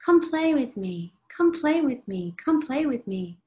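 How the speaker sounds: a hint of a begging little child; pleading child. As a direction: tug at them like a small child begging. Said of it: "The child pulls our hair".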